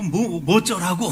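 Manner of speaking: lightly acted brazen retort; mock defiance. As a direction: throw it back like a "so what?". Voices the defiant driver.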